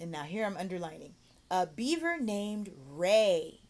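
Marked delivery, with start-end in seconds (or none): 1.5-3.6 slow, stretched model reading; reading to a child. Shown as a demonstration. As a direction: draw out each word for a learner.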